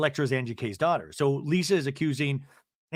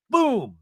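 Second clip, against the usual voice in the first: imitated crash; 9 semitones higher, 7 dB louder than usual. Imitates chair kicked over.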